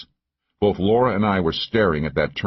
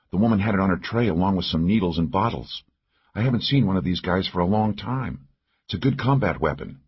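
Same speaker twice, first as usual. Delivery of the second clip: lightly voiced female partner. Partner showing the pistol she found, lightly voiced character. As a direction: lightly voice a matter-of-fact fighting partner.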